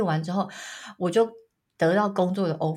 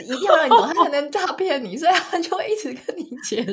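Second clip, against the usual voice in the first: high, laughing explanation; 8 semitones higher, 4 dB louder than usual. Real, not acted. Explaining why scammers are patient teachers, laughing.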